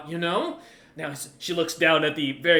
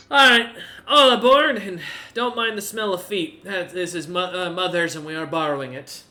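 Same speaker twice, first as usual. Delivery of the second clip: cheerful hostess call; 3 semitones higher, 8 dB louder than usual. Acted. Gertrude welcomes aboard cheerfully.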